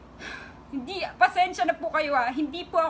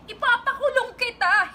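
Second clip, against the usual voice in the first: high, louder angry threat; raised threat; 8 semitones higher, 3 dB louder than usual. Pretend. Playing a wronged woman, angrily threatening the man. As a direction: cry it out as if threatening him.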